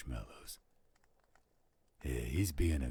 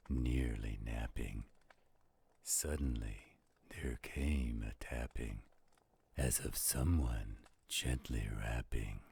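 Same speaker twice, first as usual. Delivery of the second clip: dramatic poem reading; 2 semitones lower than usual. Acted. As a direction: draw the listener into a gloomy midnight tale. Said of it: "Oh, you do that so well".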